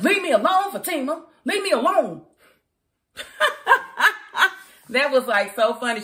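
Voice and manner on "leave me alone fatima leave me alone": mock whiny plea. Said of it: "He was like".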